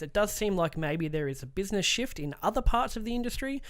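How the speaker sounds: steady article read; reading aloud. Acted. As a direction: read the news piece out clearly. Reads a news article aloud.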